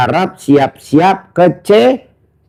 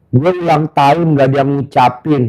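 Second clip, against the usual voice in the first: quoting the guest through a laugh; amused, half-laughing complaint; laughing retelling; 2 semitones lower than usual. Retold or imitated. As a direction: tell the guest's complaint while chuckling. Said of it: "Gue bilang gitu".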